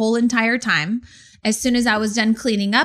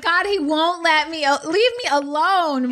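higher, exasperated grumble; annoyed; 6 semitones higher than usual. Retold or imitated. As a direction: sound fed up. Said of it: "I'm like".

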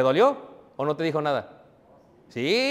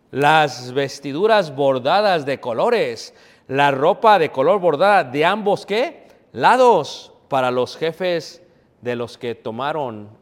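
slow, emphatic reading aloud; scripture reading; 4 semitones lower, 4 dB louder than usual. Real, not acted. Preacher reads about the embroidered garments, slow scripture reading. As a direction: read the verse slowly, leaning on each phrase.

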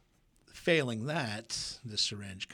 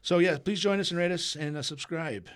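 playful announcer plug; 6 semitones higher, 8 dB louder than usual. Pretend. Host echoes the subscribe line.

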